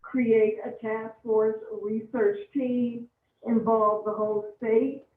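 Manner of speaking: measured, spaced-out plea; deliberate pace for the captioner; keeping it slow. Real, not acted. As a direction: plead slowly, phrase by phrase. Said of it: "keep it slow for the captioner".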